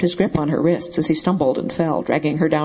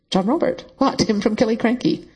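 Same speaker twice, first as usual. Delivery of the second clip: surprised rising question; 6 semitones higher than usual. Acted. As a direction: sound taken aback. Surprised exclamation.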